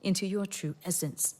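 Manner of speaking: measured, scripted show intro with small pauses; podcast intro read. Acted. Welcoming listeners to the meditation podcast, scripted intro read. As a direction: read out the show's opening in phrases.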